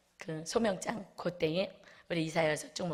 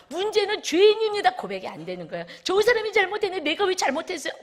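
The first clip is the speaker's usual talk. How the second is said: 열렸어요 pushed higher and louder on the repeat; excited testimony; 8 semitones higher, 5 dB louder than usual. Retold or imitated. Congregant tells the pastor heaven opened, excited and loud. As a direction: burst out 하늘이 열렸어요 with joy. Quotes congregant's joyful report.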